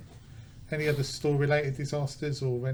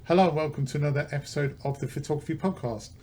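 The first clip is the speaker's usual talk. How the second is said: podcast intro. Acted. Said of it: "we'll pretend we're starting again".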